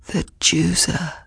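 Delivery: slow, rasping; hoarse whisper. Acted. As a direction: rasp it out slowly. Exhausted messenger croaks.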